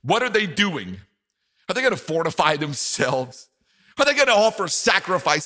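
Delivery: mocking tone. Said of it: "you can hear the mocking tone in Sanballat's voice".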